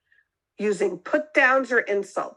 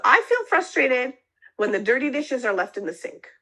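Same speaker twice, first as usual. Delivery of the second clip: gentle startup; 4 semitones higher than usual. Shown as a demonstration. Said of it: "we use what we call the gentle startup".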